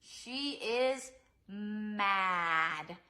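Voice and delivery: slow, loud pretend-angry shout; hammed-up mad voice for the kids; mock mad. Shown as a demonstration. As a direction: growl it out like a cross child. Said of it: "that crunched up mouth".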